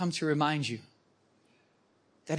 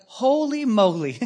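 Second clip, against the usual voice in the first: amazed; 5 semitones higher, 6 dB louder than usual. Retold or imitated. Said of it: "I was like".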